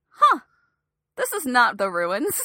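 mildly baffled, acting out the moment it dawns; puzzled realisation. Podcast host recalling a film twenty minutes in, puzzled. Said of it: "and being like".

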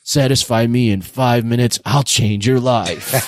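hammy VIP imitation, slowing at the end; mock VIP character. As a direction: play the overacting VIP, drawing out the last words. Mimicking the VIP, others laugh.

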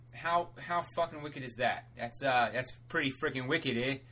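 lightly put-on Boston accent; weird Boston accent. Host praising the free audiobook offer, weird light Boston accent. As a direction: slip into a slight, odd Boston accent. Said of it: "went to a weird Boston accent there".

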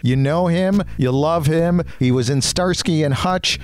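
bright, punchy announcer promo over music; promo read. Acted. Host reads a promo for his celebrity interview segment, bright announcer voice. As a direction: sell the show like a radio ad.

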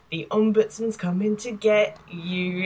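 slow, lightly creepy threat; a hint of a horror villain menace. Jeremy teasing Mark with a mild creepy warning. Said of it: "in, like, a creepy voice".

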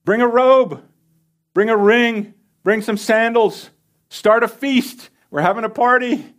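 high, loud calling out to the servants; joyful yell. Acted. The father calling his servants to start a feast, shouting with joy. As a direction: shout it out to the whole house in joy. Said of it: "he yells out".

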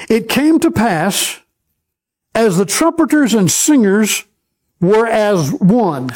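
slow, deliberate reading of scripture. Acted. Preacher reading the verse slowly to the congregation.

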